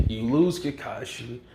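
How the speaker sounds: a hint of a smug villain; cold victory line. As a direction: deliver the win calmly and under your breath. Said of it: "And he's like".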